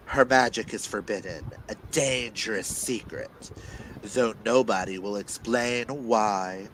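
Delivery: dramatic blurb reading with weighty pauses; dramatic telling. Acted. Reader performing the book synopsis aloud for listeners, dramatic. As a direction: read it like a movie trailer. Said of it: "you can't hear Clint's dramatic telling".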